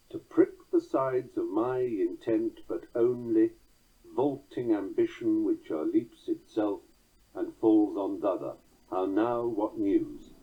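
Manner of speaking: measured reading of blank verse; verse recitation. Shown as a demonstration. Lecturer reciting three lines of Macbeth to listeners, verse recitation. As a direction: recite Shakespeare slowly.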